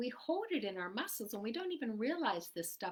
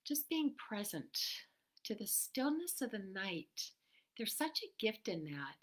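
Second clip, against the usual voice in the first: soft, calm guiding voice; 6 dB quieter than usual. Acted. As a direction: soothe them gently toward stillness. Soothing meditative advice.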